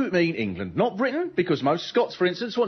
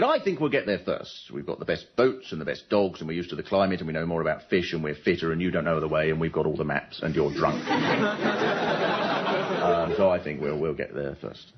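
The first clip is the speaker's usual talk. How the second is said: deadpan Scandinavian explorer; Norwegian accent; 13 semitones lower than usual. Retold or imitated. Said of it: "And Amundsen said".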